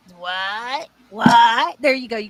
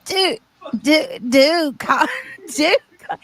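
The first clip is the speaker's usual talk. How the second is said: raspy imitation; 3 dB louder, slower than usual. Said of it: "I can't even get that amount of rasp".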